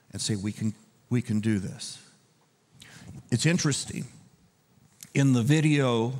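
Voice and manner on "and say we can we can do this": soft, low reassurance; gentle voice. Acted. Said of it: "in a gentle voice".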